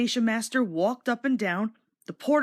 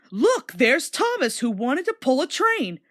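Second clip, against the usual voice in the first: louder mocking taunt; teasing; 4 semitones higher, 4 dB louder than usual. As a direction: jeer at Thomas playfully. Engines tease Thomas.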